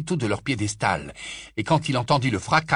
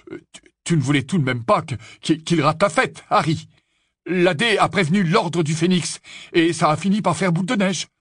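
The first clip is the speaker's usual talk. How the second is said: higher voice with stumbles; eager young twin; 7 semitones higher, 3 dB louder than usual. Acted. Twin justifying the crowd to Harry, eager and halting. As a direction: explain cheekily, tripping over the start.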